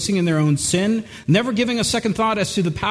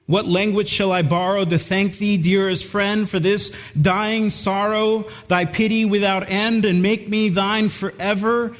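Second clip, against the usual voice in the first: solemn hymn recitation. Acted.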